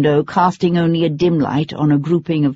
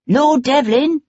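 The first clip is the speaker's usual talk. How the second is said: higher, urgent anxious shout of a name; high-pitched anxious call; 9 semitones higher than usual. A narrator's reading. Magistrate hailing Sebastian from a hackney, anxious and high. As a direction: hail him again, pitched up and worried. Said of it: "a man's high-pitched, anxious voice".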